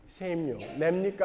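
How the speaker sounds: the Judas line redone in light Gyeongsang dialect. Retold or imitated. Punchline of the story, Judas as a Gyeongsang man, in light Gyeongsang dialect. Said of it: "가롯 유다가 경상도 놈이라는 거예요".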